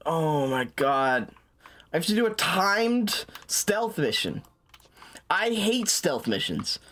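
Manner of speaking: slow, drawn-out groaning complaint; exasperated whine. Real, not acted. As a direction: whine in despair at the mission. Dreads timed stealth mission.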